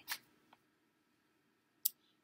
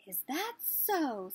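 robin; 4 semitones higher, much slower than usual. Acted. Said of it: "said the robin".

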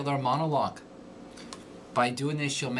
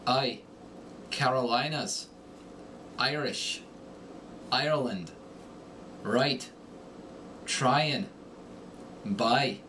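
Irish darkened long I vowel; Irish accent, darken the I sound; Irish accent word drills; slower than usual. Shown as a demonstration. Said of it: "The long I darkens to I".

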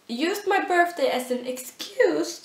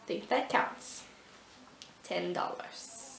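whispering; 7 semitones lower, 13 dB quieter than usual. Acted. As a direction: whisper it as a secret aside. Whispered aside.

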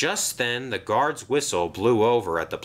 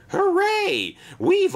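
much higher, louder, gleeful hooray; excited cheer; 6 dB louder, slower than usual. Acted. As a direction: burst out in pure glee. Twins cheer at new job.

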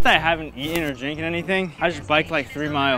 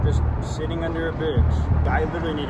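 exhausted. Real, not acted. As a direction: drag the words out, drained. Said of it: "so miserable and tired".

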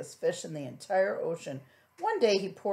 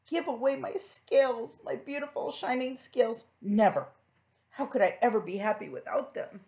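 indignant refusal; 4 semitones higher than usual. Acted. Rainbow Fish refusing.

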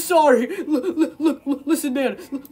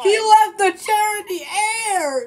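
wailing complaint; 6 semitones higher than usual. Acted. Crying out about the chair.

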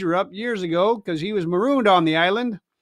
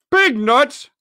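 higher, louder outraged scream; 6 semitones higher, 5 dB louder than usual. Acted. Furious pirate screaming back at Silver. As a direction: shriek it in disbelief. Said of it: "repeated Merry in a scream".

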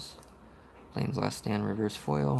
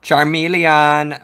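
excited; 6 semitones higher, 9 dB louder, much slower than usual. Real, not acted. Excited about a rare card.

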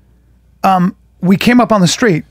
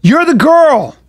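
raised-pitch retold menace; imitating Cooley; 5 semitones higher than usual. Big military friend defusing a fight with Jaws talk, lightly imitated. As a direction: act out a big guy's Jaws routine, pitched up. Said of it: "Cooley goes like this".

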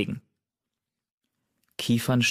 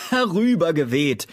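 higher, louder scornful laugh through the word; mocking sneer; 8 semitones higher, 5 dB louder than usual. A narrator's reading. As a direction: throw the word back with a scoff. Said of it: "höhnte Spatzenpelz". (Spatzenpelz äfft den Kater höhnisch lachend nach)

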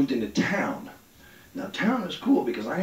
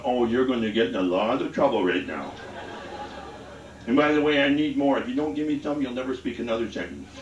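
paranoid inner voice; 3 semitones lower than usual. Retold or imitated. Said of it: "the Partisan Demerol's going".

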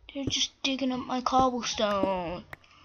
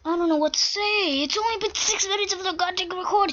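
upset disbelief; 7 semitones higher than usual. Real, not acted. Upset after losing in game.

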